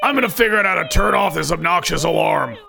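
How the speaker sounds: irritated, half-hearted orders. Acted. Ed tells Dennis to check for zombies, irritated. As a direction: give orders with exasperated um-and-whatever vagueness. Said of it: "annoyed and irritated".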